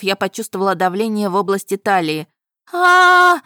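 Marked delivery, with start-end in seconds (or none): 2.7-3.4 high, loud scream of fear; громкий вопль ужаса; loud terrified scream. A narrator's reading. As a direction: scream as claws grab you. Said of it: "Мой громкий вопль".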